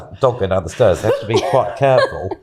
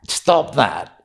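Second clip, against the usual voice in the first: higher, sharp retold order; mildly shouty order; 4 semitones higher than usual. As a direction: scold him, imitating a cross woman. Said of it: "got a bit more shouty".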